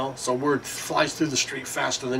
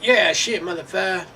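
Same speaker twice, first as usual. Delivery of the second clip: high, hammed-up voice of a job caller; mock caller voice; 6 semitones higher than usual. Man calling about a big word job, high mocking voice. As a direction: ham it up as the caller, pitched way up. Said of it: "So they would call and say".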